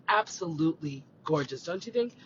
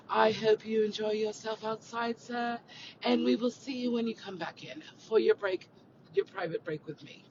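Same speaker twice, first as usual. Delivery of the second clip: mock butler; 4 semitones higher than usual. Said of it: "talking like that".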